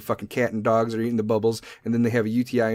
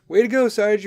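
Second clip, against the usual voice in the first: sarcastic; 7 semitones higher, 3 dB louder than usual. Acted. Mocking self.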